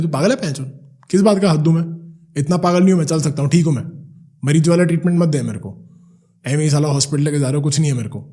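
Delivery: loud, indignant scolding, pitched a bit up; cursing uncle. Retold or imitated. Uncle cursing at his son for offering a hand, loud angry scolding. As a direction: snap back like a proud old man refusing help. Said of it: "चाचा ने गाली निकाली".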